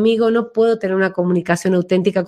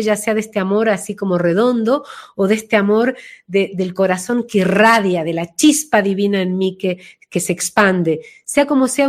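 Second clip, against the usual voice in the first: ordinary talk, nothing marked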